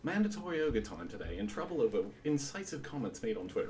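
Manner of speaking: British sports announcer voice; British football announcer. Shown as a demonstration. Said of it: "if you say it like a British football announcer".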